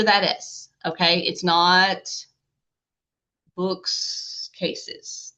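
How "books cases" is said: books cases whispered with no voice; whispered wrong form. Shown as a demonstration. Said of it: "way too much is happening".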